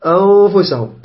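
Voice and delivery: أنفسهم with the noon hidden in a long hum; ikhfa nasal hold. Shown as a demonstration. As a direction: draw out the hidden ن of أنفسهم before the ف. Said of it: "الأخطاء اللي تصير في الإخفاء".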